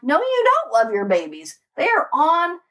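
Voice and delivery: incredulous telling-off, recounted; retold indignation. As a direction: throw the accusation back, pitch climbing midway. Retold angry confrontation with the mother.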